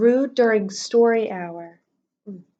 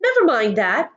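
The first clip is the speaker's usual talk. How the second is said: snapped; 3 dB louder than usual. Acted. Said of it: "Swamp snapped".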